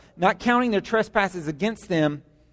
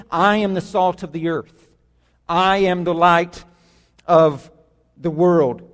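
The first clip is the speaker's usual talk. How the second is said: "I" stressed, the line slowed and loud; 3 dB louder than usual. Shown as a demonstration. Pastor voicing the listener's own claim, stressing "I". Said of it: "if you're reading this personally".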